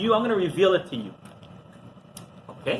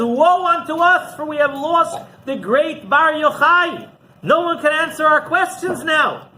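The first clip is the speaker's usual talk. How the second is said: higher and slow, a hammed-up wail; lament; 8 semitones higher, 3 dB louder than usual. Rabbi laments to the others in the yeshiva, slow high mock wail. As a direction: mourn the loss, slowly and high.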